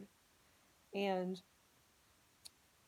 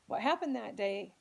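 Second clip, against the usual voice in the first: louder, emphatic anger; real indignation; 6 dB louder, slower than usual. Real, not acted. Speaker reveals what happened on the school bus, real indignation. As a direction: push the words out, indignant. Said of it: "it infuriates me".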